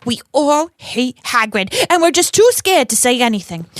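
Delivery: put-on theatrical New York accent; Rita Skeeter. Rita quoting students in her article, New York accent. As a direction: read the quotes and claims in a hammed-up New York accent. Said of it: "Rita has a New York accent".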